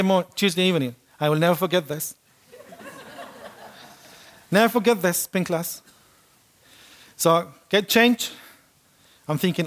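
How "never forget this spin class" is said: laughing through the words; amused retelling with a laugh. Real, not acted. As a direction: chuckle as you repeat it. Repeats the line laughing.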